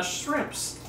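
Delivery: whispered "shrimps" with a mock Cajun-Australian twang; mock Cajun accent. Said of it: "Cajun slash Australian accent".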